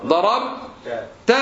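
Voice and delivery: slow ḍarabta with -ta ending; second person masculine ending. Shown as a demonstration. Teacher conjugating for a student, slow -ta ending. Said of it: "المخاطب".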